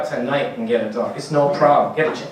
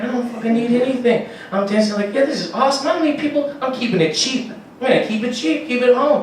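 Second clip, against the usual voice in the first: much higher, giddy party boast; giddy drunk boast; 9 semitones higher than usual. Pretend. Lonely drinker boasting to himself, high and giddy. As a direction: crow about partying alone.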